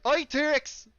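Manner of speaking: high Cockney call slipping towards Irish; attempted Cockney accent. Shown as a demonstration. Game master retrying the accent, Cockney coming out Irish. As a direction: try Cockney, let it drift Irish. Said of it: "it comes out Irish every time".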